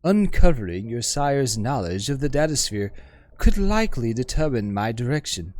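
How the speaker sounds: lightly voiced learned woman, wistful; poised scholar woman. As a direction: speak as a refined, self-assured scholar. GM voices the hive-mind woman.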